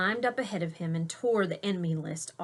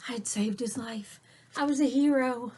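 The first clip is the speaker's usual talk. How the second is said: hushed relief; 3 semitones higher than usual. A narrator's reading. Relief after warning.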